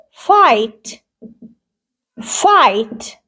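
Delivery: "fight" as "fite", long I and no g or h; silent GH. Shown as a demonstration. Teacher models an igh word, silent GH. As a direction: draw out the "eye" in "fight".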